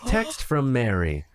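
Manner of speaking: slow flat robot readout; robotic voice. Pretend. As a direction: read it like a car's text-to-speech. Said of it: "in a robotic voice saying".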